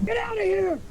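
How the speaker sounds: high, sharp shout; angry dismissal. Acted. Lucian to Clevis, shouting him away. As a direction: drive him off. Player yells in character.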